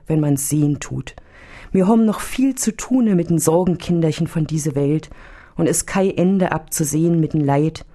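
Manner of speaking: homely dialect, lightly voiced; a hint of a chatty old nun in dialect. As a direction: fuss to Jesus in dialect. Old nun talks to Jesus.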